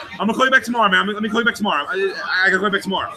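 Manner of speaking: hurried, repetitive mock panic, easing slightly; retold panic. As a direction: babble it quickly to get off the phone. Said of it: "A genuine panic".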